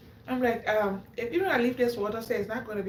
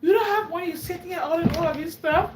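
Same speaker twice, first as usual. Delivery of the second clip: shocked disbelief; 4 semitones higher, 3 dB louder than usual. Retold or imitated. Lady's shocked question retold.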